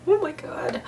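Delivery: real surprise at the box; amazed gasp. Real, not acted. Sees the Pelikan box.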